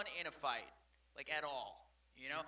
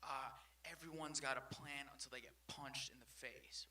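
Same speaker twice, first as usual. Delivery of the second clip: Mike Tyson; 3 semitones lower, 9 dB quieter than usual. Retold or imitated. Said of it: "Mike Tyson said where he's like".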